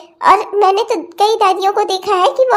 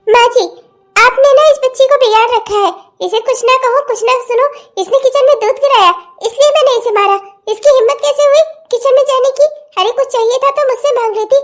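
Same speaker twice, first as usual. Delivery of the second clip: indignant complaint; 3 semitones higher than usual. Acted. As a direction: argue back at your mother-in-law. Aunt angrily justifies hitting the child.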